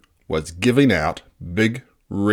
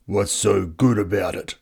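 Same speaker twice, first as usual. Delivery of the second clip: muttered. Acted. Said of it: "muttered Woebegone".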